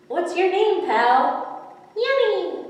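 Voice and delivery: high, loud, greedy cat voice; hungry predator relishing; sly hungry cat. Acted. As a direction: lick your lips at the prey.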